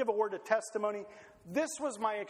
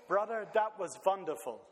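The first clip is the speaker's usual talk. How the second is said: a light hint of a Pennsylvania German accent. Preacher quoting old Pennsylvania German brothers with a light accent. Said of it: "in their Pennsylvania German accent".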